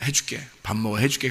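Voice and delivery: put-on soft coaxing, pleading with a child to eat; coaxing parent. Parent coaxing a fasting child to eat, softly. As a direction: hush and coax a hungry child. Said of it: "그러면 뭐라 그러면".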